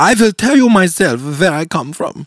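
exaggerated, laid-on put-on German accent. Reading a script aloud that has blanks in it, put-on German accent. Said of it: "Should I do the German accent?".

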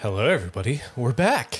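put-on, mock sultry voice. Welcoming everyone back after a break, put-on sultry voice. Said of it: "I don't know why we had that voice".

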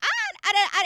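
very high, loud pitch at the start. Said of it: "the way I will go high pitch".

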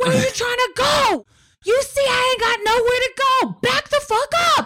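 very high, hostile, aggressive shouting. Retelling a man yelling back at another before a fight, retelling an aggressive yell. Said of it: "he's yelling back at him super aggressively".

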